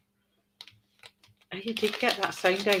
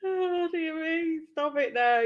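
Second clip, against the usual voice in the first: spent laughter; 9 semitones higher, 4 dB quieter than usual. Real, not acted. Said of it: "I'm crying".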